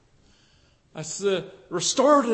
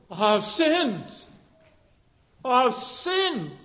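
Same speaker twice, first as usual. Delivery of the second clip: groaned; 3 semitones higher, slower than usual. Retold or imitated. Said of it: "he groaned".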